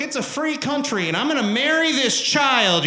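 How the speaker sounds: high, emphatic proclamation; mock proud declaration. Mock creep declaring his freedom.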